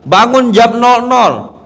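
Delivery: slow, drawn-out mock pious voice; lightly voiced Pak Haji listing duties; imitating Pak Haji. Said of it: "Banyak tuh, Pak Haji bilang".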